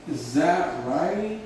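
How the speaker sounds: drawn-out words, unhurried; slow teacher repetition; slow model phrase. Shown as a demonstration. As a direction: stretch each word for the learners. Repeats slowly while writing.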